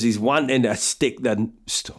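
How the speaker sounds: attempted Scottish accent, breaking off; half-failed Scottish stereotype accent; bad Scottish accent. Guessing Stephen Flynn's fighting style, bad Scottish accent. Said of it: "that was a bad Scottish accent".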